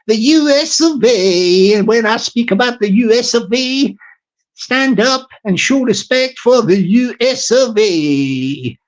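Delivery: put-on an announcer-style American accent; American accent, lightly put on. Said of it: "I went into the old Americano accent".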